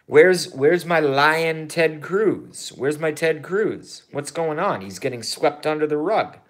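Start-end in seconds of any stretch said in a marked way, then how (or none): 0.1-4.8 higher, slow mock-plaintive call; mock lament. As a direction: whine for a lost hero, half joking. Mock lament for Ted Cruz.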